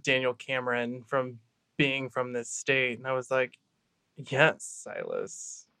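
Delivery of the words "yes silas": slow, proud Appalachian drawl on the name; stern Appalachian voice. Retold or imitated. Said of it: "prideful but stern Appalachian voice".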